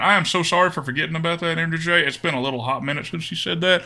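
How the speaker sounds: put-on Southern US accent. Streamer apologising to a viewer for forgetting, Southern accent. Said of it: "We can do the accent this round".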